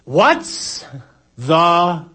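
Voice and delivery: drawn-out comic holler, word by word; yelling back. Shown as a demonstration. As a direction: call it slowly across a roaring storm. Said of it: "yelling back, something like this".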